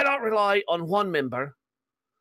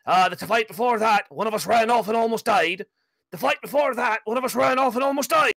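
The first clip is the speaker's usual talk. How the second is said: angry; 4 dB louder than usual. Acted. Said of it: "Tyrion seems angry".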